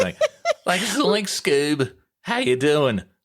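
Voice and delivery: high, swooping, sing-song Australian cartoon slacker voice. Reacting to a voice actor's story of how he sounded before fifteen, do an Australian Shaggy voice. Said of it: "I kind of sounded like an Australian Shaggy".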